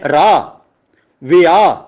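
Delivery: ਰਾਹ, ਵਿਆਹ said "raa", "vi-aa", falling on the vowel; correct silent ending. Shown as a demonstration. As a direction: leave off any "ho" in ਰਾਹ, ਵਿਆਹ. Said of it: "ਇਹਦਾ ਉਚਾਰਨ ਨਹੀਂ ਹੁੰਦਾ ਇਸ ਤਰ੍ਹਾਂ". (ਰਾਹ, ਵਿਆਹ ਨੂੰ "ਰਾ", "ਵਿਆ" ਵਾਂਗ)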